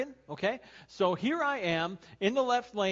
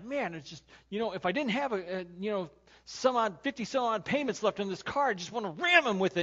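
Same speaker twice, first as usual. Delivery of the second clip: mock road rage; 5 semitones higher, 4 dB louder than usual. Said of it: "I'm like".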